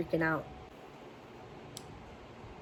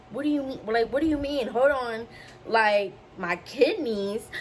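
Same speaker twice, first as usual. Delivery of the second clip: mild retold panic; 3 semitones higher than usual. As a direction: retell a bewildered demand for answers. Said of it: "I just started panicking".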